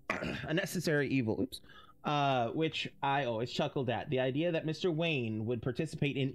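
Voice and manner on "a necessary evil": put-on light British accent for an old butler-type; clipped British reading of the letter, lightly done; a hint of a British gentleman's accent. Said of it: "giving Lucius a British accent".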